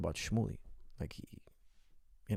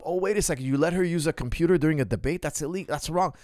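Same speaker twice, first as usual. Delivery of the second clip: mock outrage; 4 semitones higher than usual. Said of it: "Shmuley blows up".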